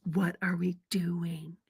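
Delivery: slow, quiet, dragged-out whine; complaining to her husband on the uphill hike; whiny complaint. Retold or imitated. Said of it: "I'm like".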